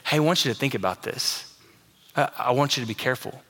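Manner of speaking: gentle leaning-in warning. Shown as a demonstration. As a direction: lean in and warn them like a friend. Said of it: "The tone is like, Jesus is leaning in".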